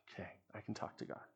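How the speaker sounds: imitating a nervous kid, hushed after a sigh; sigh, then a small, breath-only, hesitant voice; daunted kid. Daunted boy agreeing to lead prayer, imitated in a hushed voice. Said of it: "his eyes would get that big".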